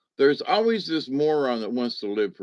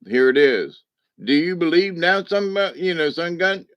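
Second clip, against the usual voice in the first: mock divine challenge; 6 semitones higher, 4 dB louder than usual. Voicing the universe challenging him.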